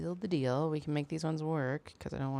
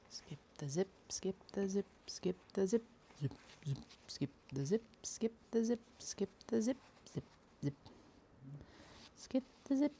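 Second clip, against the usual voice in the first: put-on French accent; 4 semitones higher than usual. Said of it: "terrible French accent".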